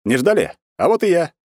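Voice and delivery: loud, cheerful burst into the room; cheerful entrance. A narrator's reading. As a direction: announce yourself gleefully. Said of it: "весело ворвался в кабинет".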